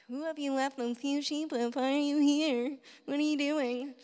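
lightly mocking older brother; a hint of sneering brother; jabbing sibling taunt. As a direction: needle him like a smug sibling. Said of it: "A little jab".

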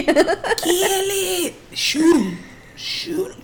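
high laughing hammed-up cry; mock redneck yell. Cohost imitating rednecks shooting at aliens, laughing mock yell. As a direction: egg on the shooting, half laughing. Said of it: "the rednecks were like".

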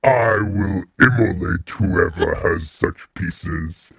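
dragon serpent voice. Acted. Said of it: "he doesn't say this part".

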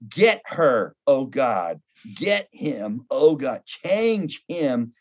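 demanding prayer, lightly mocked; hint of a self-righteous believer; mock selfish prayer. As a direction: pray for others to be fixed, tongue in cheek. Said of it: "we love prayers that begin with".

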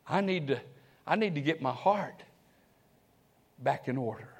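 soft, slowed prayer to the Lord; hushed prayer. Retold or imitated. Preacher voicing his own prayer, softly prayerful. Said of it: "I bow my head and say".

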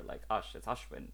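"Ashwin" starting like "usher"; "Ush", then "Ashwin" with that same first vowel; pronounced with a U. Shown as a demonstration. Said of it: "pronounced with a U".

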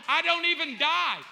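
loud, high-pitched astonishment; amazed exclamation. Acted. Preacher acting out his arrival in heaven, amazed exclamation. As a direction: burst out in playful disbelief.

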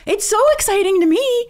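high, gleeful gush; excited squeal. Real, not acted. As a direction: squeal it with delight. Gushing about the drama.

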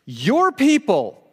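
God hurrying Moses down the mountain; urgent voice of God. Acted. God warning Moses, high and urgent. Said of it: "Then the Lord told Moses".

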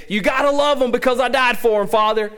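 lightly voiced plea to persuade the Father; Jesus pleading with the Father. Jesus begging the Father to love us, mild mock plea. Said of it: "Jesus is twisting the Father's arm saying".

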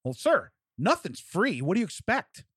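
exasperated rep impression, drawn out and emphatic; imitated mad voice. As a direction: imitate a fed-up rep lecturing a customer. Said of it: "just mad voice".

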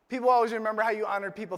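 fast. Shown as a demonstration. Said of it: "repeated point".

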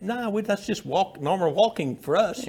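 retold comeback. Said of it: "I said".

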